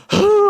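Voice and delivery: very high, loud mock sob; imitated crying pastor. Pastor crying in mid-sermon, imitated loud sob. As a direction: mimic a sudden wailing gasp. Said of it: "하면서 진짜 막 울어요".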